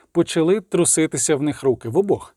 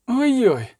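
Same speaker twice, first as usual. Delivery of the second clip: a higher, playful ой-ой; 8 semitones higher than usual. A narrator's reading. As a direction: tease him with ой-ой. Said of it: "сказала Єннефер". (грайливе ой-ой)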